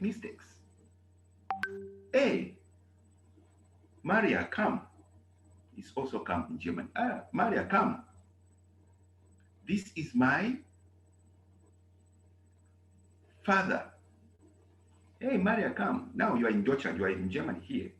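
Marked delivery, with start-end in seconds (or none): 2.1-4.8 put-on loud, high summons to a child; calling out. Acted scene calling daughter. 7.0-16.1 calling out. Acted. Acted scene introducing father.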